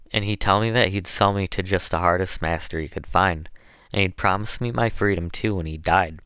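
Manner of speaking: lightly voiced Southern dialect, aggrieved; hint of a put-upon servant woman; enslaved woman. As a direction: recount your troubles in folksy Southern dialect.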